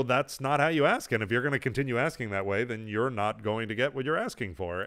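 calm, low parental correction; patient firmness. Retold or imitated. Dad waiting out a child's demands, patient and firm. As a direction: hold the line patiently, voice easing down. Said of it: "sit there patiently and wait it out".

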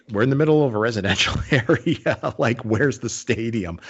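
mildly incredulous, rising then slowing; mock confusion, laughing slightly midway; retold bafflement. Driver lost hunting for the ballpark, retold bafflement. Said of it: "And I'm like".

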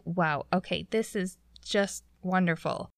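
understated, deadpan resignation; muted, unimpressed retort; dry sarcasm. Retold or imitated. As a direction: say it like it is anything but welcome. Sarcastic reaction to door being broken.

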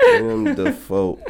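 high squeaky laugh-talk; giggling the name out. Real, not acted.

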